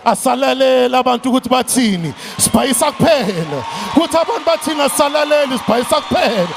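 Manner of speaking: shouted rhythmic call, building; rousing preaching. Acted. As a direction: whip up the crowd with each refrain. Rousing chant closing motivational speech.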